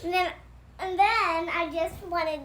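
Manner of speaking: plain reading voice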